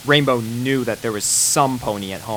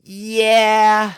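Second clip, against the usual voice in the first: resigned sigh; 10 semitones higher, 5 dB louder than usual. A narrator's reading. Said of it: "Rainbow sighed with resignation".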